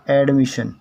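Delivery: एडमिशन said clearly as ed-mi-shan; teacher models एडमिशन, ed-mi-shan; एडमिशन as ed-mi-shan for students; model pronunciation. Shown as a demonstration. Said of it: "इसका उच्चारण है दोस्तों".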